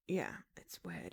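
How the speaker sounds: whispering. Real, not acted. Trails off quietly.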